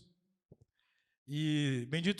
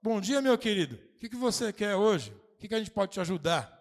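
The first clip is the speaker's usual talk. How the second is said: overly sweet, louder and higher welcome; sweet greeting; 4 semitones higher, 4 dB louder than usual. Retold or imitated. Worker greeting a shouting parent, sugary welcome. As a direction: kill the anger with kindness. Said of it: "eu falava".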